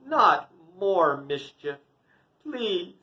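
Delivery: slow, emphatic mild scold; an exasperated mother's understated telling-off; fierce scolding. Acted. Mother comes out to stop the mischief, mildly fierce scolding. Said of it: "So Yashoda fiercely came out".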